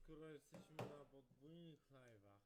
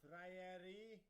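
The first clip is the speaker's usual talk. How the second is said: angry; 3 semitones higher than usual. Real, not acted. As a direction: yell it at him like a challenge. Shouting threats at opponent.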